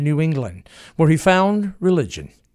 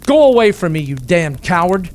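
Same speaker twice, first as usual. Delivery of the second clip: loud, much higher angry shout; 3 semitones higher, 6 dB louder than usual. Acted. Booth shouting at Harold in a rage, loud angry shout. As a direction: bellow at him to get away. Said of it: "Booth shouted".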